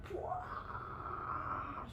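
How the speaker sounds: breathy mock blast; soft airy explosion noise; imitated lamp explosion. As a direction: puff out a bursting sound. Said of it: "lampu meledak".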